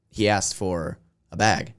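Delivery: bag with the vowel pushed toward beg, said slowly; New Jersey bag. Retold or imitated. Telling the story of his brother in New Jersey, slow Jersey bag. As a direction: drawl bag like a Jersey local. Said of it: "he was probably saying big".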